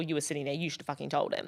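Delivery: hushed angry hiss. Retold or imitated.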